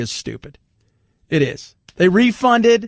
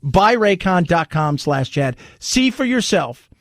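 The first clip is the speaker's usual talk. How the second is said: upbeat sponsor read, selling. Acted. Host reading a sponsor ad to listeners, upbeat ad read. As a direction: pitch the earbuds like a radio spot.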